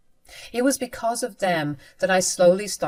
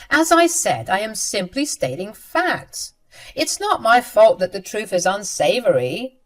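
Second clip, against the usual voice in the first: a cool, preachy sister talking down; lightly voiced know-it-all, calmly lecturing; condescending sister; 4 dB louder than usual. Sister lectures her angry brother, cold and condescending. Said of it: "She said".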